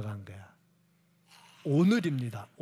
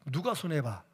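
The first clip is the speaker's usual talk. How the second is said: ordinary talk, nothing marked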